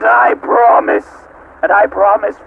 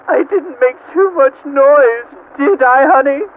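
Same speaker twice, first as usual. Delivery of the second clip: mimicking wife; 6 semitones higher than usual. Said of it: "like a small animal, she said".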